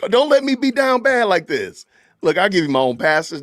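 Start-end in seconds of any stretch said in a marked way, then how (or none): 0.1-1.8 high, laughing plea; pleading through laughter. Real, not acted. Pleading with chat to stop him, laughing. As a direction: beg the chat while cracking up.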